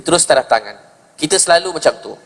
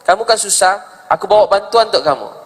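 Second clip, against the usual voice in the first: lifted much higher, eager offer of help; Umar's voice; 7 semitones higher than usual. Retold or imitated. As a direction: call out kindly to a man running away. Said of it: "Umar kata". (suara Umar yang tinggi dan bersemangat menawarkan bantuan)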